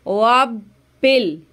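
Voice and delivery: वबिल very slow with a firm, held doubled b; correct reading. Shown as a demonstration. Teacher showing the held ba. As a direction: press and hold the b in वबिल. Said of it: "बा पे जमाव करना है".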